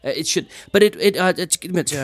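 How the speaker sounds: high, flustered reassurance; a performer dodging the question; hedging performer. Acted. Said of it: "It's like".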